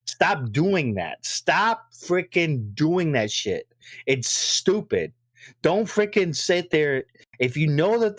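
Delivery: stop, doing, that, slowly; slow scolding. Real, not acted. Scolding Sony over delays, slow and fed up. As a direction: drag each word out, fed up. Scolding Sony's late announcements.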